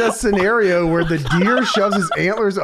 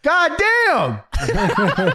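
Jericho's catchphrase. Retold or imitated. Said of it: "Jericho literally comes out and goes".

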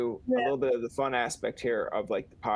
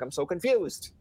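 higher-pitched mock confusion; mock bewilderment; 4 semitones higher than usual. Tourist retelling a muddled French exchange, mock bewildered. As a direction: play up being baffled, lightly. Acted bewildered reply in France story.

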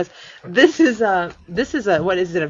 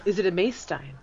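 hushed whisper; 5 dB quieter than usual. Acted. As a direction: whisper it like a secret. Joking hushed question.

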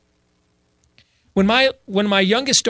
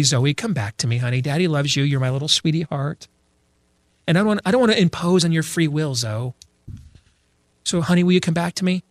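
a hint of an over-sweet daddy; mock nice dad. Father half-heartedly coaxing his daughter out of traffic, mock nice. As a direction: coax gently, mildly hammed-up. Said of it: "I don't want to persuade her nicely".

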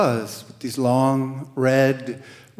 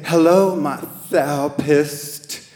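mocking. Tara teasing the volunteer on the phone, mocking. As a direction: tease the word therapist. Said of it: "mocking the whole therapy thing".

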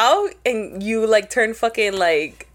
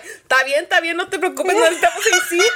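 higher-pitched, insistent dad brushing it off; mock-reassuring dad, pitched up; imitating dad; 7 semitones higher, 4 dB louder, faster than usual. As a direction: act out a dad waving off concern. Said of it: "And he's like".

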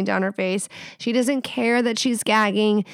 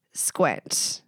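whispered; 6 semitones lower, 5 dB quieter than usual. Real, not acted. Telling listener to just squint.

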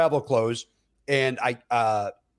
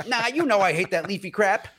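pitched-up comic irritation; mock angry retort; 6 semitones higher than usual. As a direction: imitate an annoyed customer snapping back. Acts the customer's angry retort.

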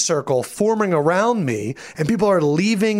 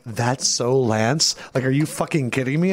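a hint of a stunned friend; incredulous friend; 3 semitones lower than usual. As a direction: mutter it in disbelief.

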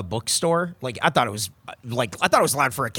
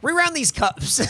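mock high drawn-out; 11 semitones higher, slower than usual. Mocking the stamp instruction.

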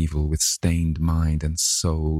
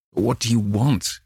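gasped in fright; 5 semitones higher than usual. Acted. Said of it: "he gasped".

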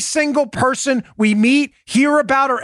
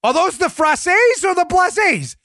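higher, flustered protest; mock confusion; 5 semitones higher than usual. Host muddles blazes and frasses with Paula, mock confused. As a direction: sound hopelessly mixed up, hammed up. Acted confused argument over glasses.

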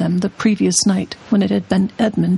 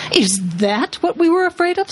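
much higher odd creature voice; jeering creature; 9 semitones higher than usual. A narrator's reading. Another creature mocking Aslan, high odd voice. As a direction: squeak it out scornfully. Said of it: "said another".

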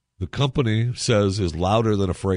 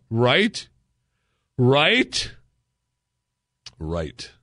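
higher, sing-song fake comfort; mock the authorities with fake cheer; sarcastic pitched-up reassurance, mocking the police line; 4 semitones higher than usual. Mocking official reassurance about spying.

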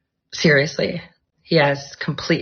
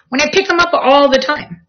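higher, whiny complaint to the cat; exasperated complaint; 8 semitones higher than usual. Real, not acted. Complaining to her cat about hairballs, higher exasperated voice. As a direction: grumble at the cat.

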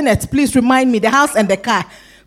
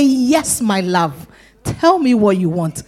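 tender reply; slower than usual. Acted. God turns to answer the one pleading, tenderly. Voicing a loving divine reply.

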